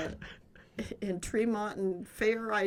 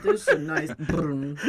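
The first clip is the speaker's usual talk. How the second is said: put-on toddler voice; 7 dB louder, much slower than usual. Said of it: "quoting toddler Jason".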